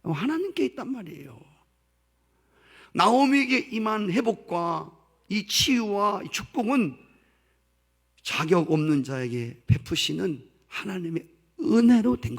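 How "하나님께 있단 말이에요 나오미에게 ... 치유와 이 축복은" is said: ordinary talk, nothing marked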